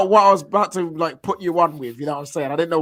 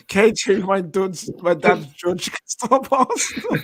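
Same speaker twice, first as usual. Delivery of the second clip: imitating friend; slower than usual. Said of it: "you just said".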